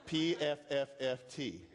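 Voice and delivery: dismissive raspberry puff; soft pff. Shown as a demonstration. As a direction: blow it off with a pff.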